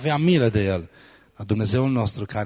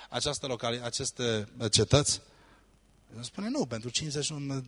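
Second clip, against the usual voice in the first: much softer, almost under the breath; hushed retelling; 8 dB quieter than usual. Retold or imitated. Preacher retelling God's answer to Abraham, very soft. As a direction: drop the voice right down as the story turns.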